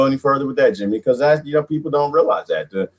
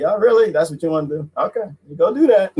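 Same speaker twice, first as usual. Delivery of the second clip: mocking; 5 semitones higher than usual. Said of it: "I just laugh like".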